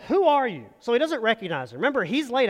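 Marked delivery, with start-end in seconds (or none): 0.1-0.7 startled call. Acted. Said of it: "And he said".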